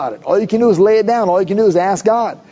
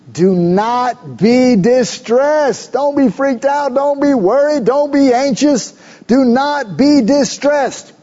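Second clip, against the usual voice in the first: slow reassurance; 5 semitones higher, slower than usual. Acted. Preaching Joseph's comfort, slowed.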